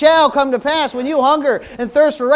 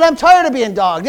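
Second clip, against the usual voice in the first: emphatic repeat. Real, not acted. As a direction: drive it home a second time. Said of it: "I said".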